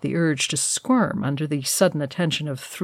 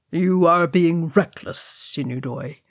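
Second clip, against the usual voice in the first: sighing. Acted. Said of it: "he sighed".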